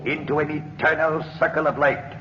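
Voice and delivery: mystic oracle. Acted. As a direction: intone the mystery of death. Spirit reveals death's secret.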